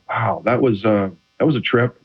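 dry, sarcastic remark to the ref; passive aggressive. Retold or imitated. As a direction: needle the official with fake politeness. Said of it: "extremely passive aggressively".

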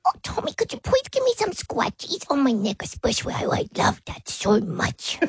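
soft, lightly voiced pleading little dog; dog's voice. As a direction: ask for neck scratches as the dog, fading to a breathy end. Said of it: "give us a bit more of conversation".

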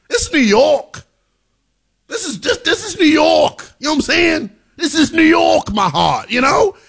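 high-pitched, pleading insistence; fervent New York rant; impassioned hype. Real, not acted. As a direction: plead it high, like a worked-up fan. Hyped rant about New York.

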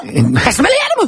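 high-pitched tongue-tied outburst; complaining through a tangled tongue. Real, not acted. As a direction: blurt it out with an unwieldy tongue. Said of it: "no puedo mover la lengua".

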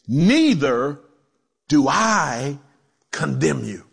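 slow, low, measured reassurance; gentle pardon. Acted. Jesus to the accused woman, gently pardoning.

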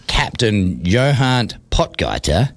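slow name with a little South African twang. Pretend. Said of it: "there's a bit of twang".

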